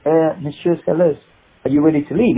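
lightly voiced French driver; polite, hesitant French accent; French chauffeur. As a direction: ask with a hint of French chauffeur. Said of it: "So the chauffeur comes and he goes".

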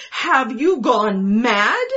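loud, slow, appalled question; husband horrified by his wife; horrified cry. A narrator's reading. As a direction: recoil in horror at her plea. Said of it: "he cried, horrified".

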